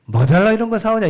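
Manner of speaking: loud, high gruff Gyeongsang grumble; 퉁명스러운 경상도 사투리; gruff Gyeongsang dialect. Retold or imitated. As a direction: bark it like a blunt Gyeongsang dad. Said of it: "경상도 사투리가 나오는 겁니다".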